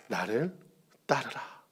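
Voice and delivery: solemn call. Acted.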